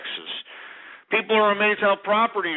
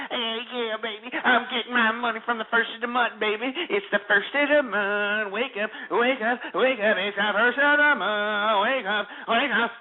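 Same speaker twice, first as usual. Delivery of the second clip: a higher, lightly voiced mock of the lazy caller; 4 semitones higher than usual. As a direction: sneer his words back at him. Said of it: "Sitting here saying".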